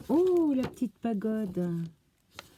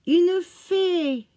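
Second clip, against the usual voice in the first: a fairy, higher and louder in sudden delight; thrilled little exclamation of discovery; surprised cry; 8 semitones higher, 8 dB louder than usual. Real, not acted. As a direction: call it out as you spot it. Spots the fairy stamp.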